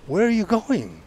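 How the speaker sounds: officer shouting. Retold or imitated. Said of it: "they said".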